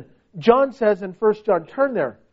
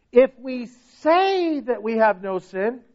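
"say" held long and raised; slow down and stretch "say"; stress on SAY; slower than usual. Shown as a demonstration. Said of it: "notice this word".

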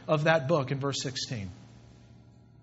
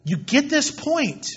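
P=A; stress on this; 8 semitones higher than usual. Real, not acted. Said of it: "I'm driving it home".

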